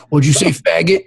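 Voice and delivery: gruff dock worker hollering; longshoreman voice. Retold or imitated. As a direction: bark it like a tough dock worker. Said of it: "That was longshoreman voice".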